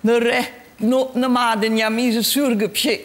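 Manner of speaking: reversed-sounding greeting; backwards speech. Shown as a demonstration. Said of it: "können Sie das noch mal machen". (rückwärts gesprochen)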